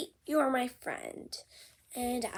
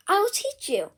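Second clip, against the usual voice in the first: whispered offer; 7 semitones higher, 4 dB louder, faster than usual. Acted. Gerald offers to teach Piggy, whispered. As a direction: confide it kindly.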